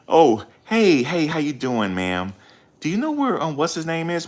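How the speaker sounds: high, sing-song fake-innocent voice; hammed-up innocent asker; mock innocent. Mocking a suspect's innocent questions.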